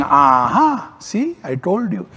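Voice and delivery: mock gloating, voice lifting high on "see"; a knowing aha, playing the aloof watcher; mock I-told-you-so. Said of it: "watching, saying".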